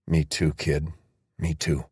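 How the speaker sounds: soft, low, heavy-hearted; quiet and sad. Acted. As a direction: say it gently with regret. Beckham's quiet sad reply.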